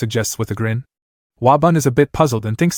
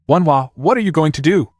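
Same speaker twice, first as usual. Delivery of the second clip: higher-pitched, worried question; 4 semitones higher than usual. A narrator's reading. Older brother to Wonhwa about treating the man, worried. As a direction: ask with a touch of worry. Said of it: "Wabun worriedly inquires".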